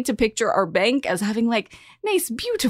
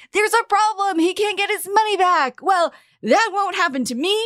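worried bank customers; 8 semitones higher than usual. Retold or imitated. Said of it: "something along the lines of".

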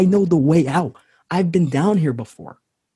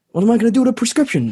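quick, high, incredulous outburst; baffled exclamation; 7 semitones higher, much faster than usual. Acted. Man in the hole, handed a prescription, bursts out incredulous. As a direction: fire it off in disbelief.

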